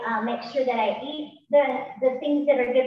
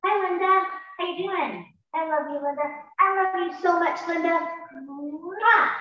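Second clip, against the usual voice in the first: self-love mirror talk; 5 semitones higher than usual. Shown as a demonstration. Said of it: "and I'm like".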